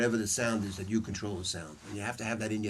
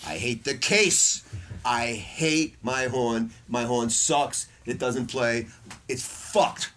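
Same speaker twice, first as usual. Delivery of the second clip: building rant; slower than usual. Retold or imitated. Sax player venting about his hated horn, mounting exasperation. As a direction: list each grievance slowly, punching harder each time.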